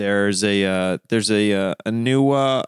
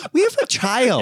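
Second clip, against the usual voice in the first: very high hammed-up pleading; play-acted money panic; mock desperate partner; 12 semitones higher than usual. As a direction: squeal it like a fed-up spouse.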